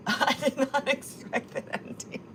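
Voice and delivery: words breaking through real laughter; laughing. Real, not acted. Laughing at a funny clip.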